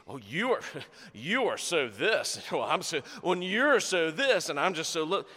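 mocking, laughing sarcasm; playful sarcastic jab; sarcastic mockery. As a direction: sneer it out with a laugh. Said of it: "I'm being sarcasm".

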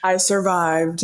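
slow, laughing through the words; laughing at how hard it was. Real, not acted. Daughter laughing to her dad about surviving math.

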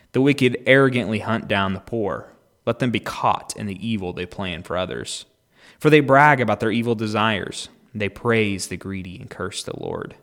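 loud, forceful reading of the psalm. Acted. Reader proclaiming the psalm about the wicked, loud. Reads Psalm ten aloud.

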